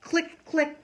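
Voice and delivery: high, loud cheerful farewell; a girl waving the bird goodbye; excited goodbye. Acted. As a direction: call it out as the bird flies. Girl photographing bird leaving.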